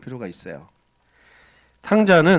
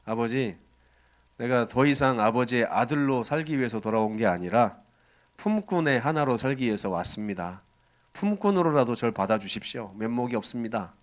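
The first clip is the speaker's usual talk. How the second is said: ashamed plea; 3 semitones lower, 3 dB quieter than usual. Acted. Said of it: "아들이 이제 양심이 있어요".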